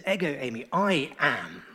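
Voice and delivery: "Ego eimi" in Greek, then "I am" lifted and stressed; Greek quotation. Shown as a demonstration. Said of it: "It's very emphatic".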